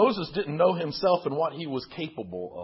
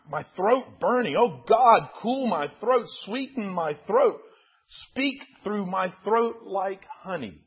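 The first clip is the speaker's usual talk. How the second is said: anguished pleading; 5 semitones higher, 3 dB louder than usual. Acted. Moses pleads with God in pain.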